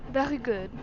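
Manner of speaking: put-on lightly French-accented reply. Servant accepting master's plan, French accent. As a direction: answer with a touch of French accent. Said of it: "French accent is so much easier".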